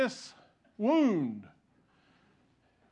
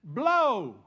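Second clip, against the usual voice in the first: pained shout; 4 semitones higher, 7 dB louder than usual. Retold or imitated. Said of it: "and I said".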